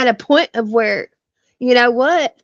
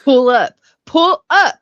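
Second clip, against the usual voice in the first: Southern drawl; 4 semitones higher, 5 dB louder than usual. Retold or imitated. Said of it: "That's why I told A O C".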